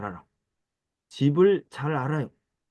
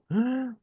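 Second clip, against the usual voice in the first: surprised gasp; 11 semitones higher, 4 dB quieter than usual. Acted. Amazed at many books.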